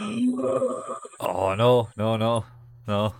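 mock panic, starting very high; squeaky imitated alarm; panicked denial. Meryl panicking at the garden, high mock-alarmed no's.

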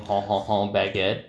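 lightly mocked-up French cliché; cartoony French accent. Shown as a demonstration. Player demonstrates a limited French accent, cartoony French. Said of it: "my French accent is basically limited to cartoony".

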